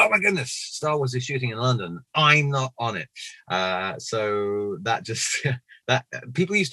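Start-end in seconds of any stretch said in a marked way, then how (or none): 0.0-3.1 mock devastation. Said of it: "I was devastated".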